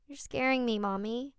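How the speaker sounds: put-on high, small frightened child; scared little boy. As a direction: whimper it like a toddler. Frightened four-year-old son.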